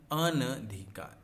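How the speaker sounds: अनधिकार said slowly, each syllable clear; drawn-out अनधिकार for the class; teacher repeats अनधिकार slowly; slow correct word. Shown as a demonstration. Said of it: "अनधिकार होता है".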